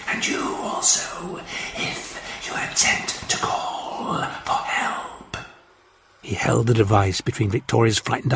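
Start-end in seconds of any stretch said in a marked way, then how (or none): 0.1-5.4 slow, quiet whispered threat; calm menace in a hiss. A narrator's reading. Martian warlord threatening witnesses, calm slow hiss. Ice Warrior voice continues.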